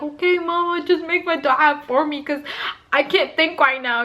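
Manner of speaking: loopy mumble. Retold or imitated. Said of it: "I'm, like, loopy".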